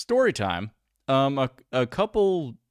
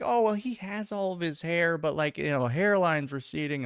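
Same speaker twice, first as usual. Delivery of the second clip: mimicking woman; 6 semitones higher than usual. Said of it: "being like".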